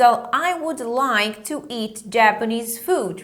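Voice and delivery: I would like to eat Japanese food said at half speed; teacher reading the model line for students to echo; slow drill sentence. Shown as a demonstration. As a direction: pace it slowly for learners to repeat.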